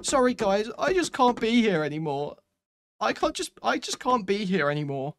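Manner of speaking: high, pleading parody of a departing fan; mock whiny goodbye. Mocking a fan who makes a departure post, high and whiny. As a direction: lift the pitch and whine the farewell like a wounded fan. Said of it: "if you put a post in a community saying".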